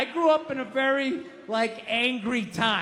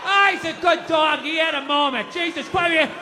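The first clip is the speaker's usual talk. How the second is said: gruff dad voice; 5 semitones higher than usual. Retold or imitated. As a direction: bark it out like a dismissive father. Dad excusing the dog.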